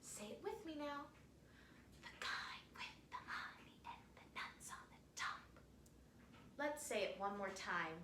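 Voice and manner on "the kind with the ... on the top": breathy, secretive whisper. Leading listeners to repeat a phrase together, secret whisper. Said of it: "Like it's a secret?".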